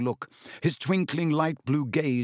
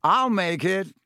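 louder, eager interruption; butting in; 7 semitones higher, 5 dB louder than usual. A narrator's reading. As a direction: jump in over them. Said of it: "Lockhart butted in".

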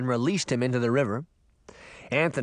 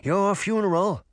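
lightly gurgled, higher dismissive voice; a hint of gurgle, pitched up; gurgling fish; 7 semitones higher, 3 dB louder than usual. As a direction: wash your hands of it as a fish. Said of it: "the fish gurgled".

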